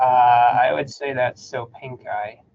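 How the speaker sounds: "Pink Eye" said as two words, pink EYE; "Soap Pink Eye" stressed on the final EYE; name pronounced correctly. Shown as a demonstration. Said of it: "How do you pronounce that species?".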